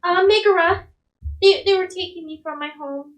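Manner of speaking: lightly voiced young girl; little girl. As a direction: answer like a rescued child. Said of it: "the little girl kinda".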